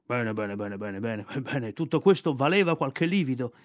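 gently pleased with the cub; tender bear. Acted. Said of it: "disse l'orso bruno con tenerezza".

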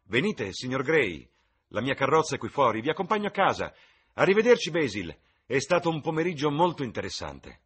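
high, loud, jaunty aristocrat; exuberant, carrying society voice; breezy lord taking leave. Acted. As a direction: call out a cheerful, airy goodbye.

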